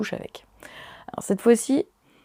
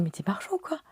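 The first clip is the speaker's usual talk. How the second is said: mock outburst; 8 semitones higher, 8 dB quieter, faster than usual. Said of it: "je pète un câble".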